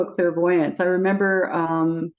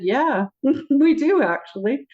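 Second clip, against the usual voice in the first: higher, slow, laughing confirmation; amused yes; 8 semitones higher, slower than usual. Retold or imitated. Michael confirming they party on the other side, laughing. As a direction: confirm a fun secret.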